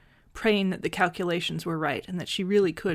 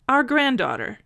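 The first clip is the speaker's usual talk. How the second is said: put-on an old man hearing he has a granddaughter; higher, astonished echo; stunned echo; 7 semitones higher, 5 dB louder than usual. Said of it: "he echoed her".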